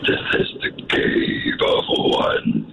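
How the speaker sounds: whispered cave voice; the Cave of Wonders whispering; grinding stone statue. Acted. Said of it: "Yes, from Aladdin".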